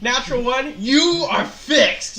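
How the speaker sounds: loud, high, laughing exclamation; laughing disbelief. Real, not acted. Laughing at the fumbled roll.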